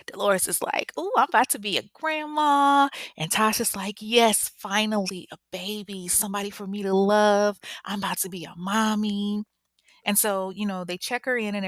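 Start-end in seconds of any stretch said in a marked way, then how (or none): 1.0-2.9 high, loud squeal of delight; acted-out excited outburst. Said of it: "they're both really excited". 4.0-9.4 mildly hammed-up excitement; excited. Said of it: "they're both really excited".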